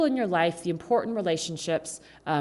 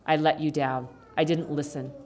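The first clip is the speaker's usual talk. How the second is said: sincere apology; 4 semitones lower than usual. Shown as a demonstration. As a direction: humbly own the mistake. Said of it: "both parties can say".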